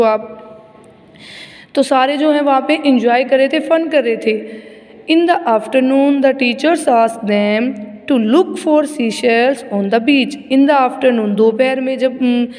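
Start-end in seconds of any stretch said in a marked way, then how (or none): 5.1-10.4 very slow, word-by-word reading; measured classroom reading with drawn-out words; textbook read-aloud. Acted. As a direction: read it out slowly for young pupils. Reads textbook aloud slowly.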